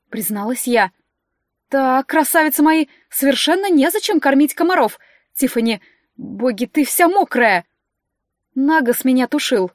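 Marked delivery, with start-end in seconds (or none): 1.7-7.6 a hint of a fussing high steward voice; fussy steward scolding the witches. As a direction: flutter over the girls, louder. Steward Dominika's voice.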